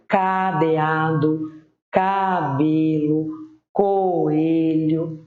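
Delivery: each word drawn out slowly for the class; slow example words. Shown as a demonstration. Teacher reading example words slowly to children. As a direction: spell the sound out slowly. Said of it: "Assim como".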